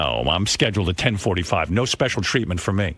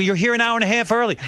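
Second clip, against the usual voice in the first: exasperated son; 12 semitones higher than usual. Retold or imitated.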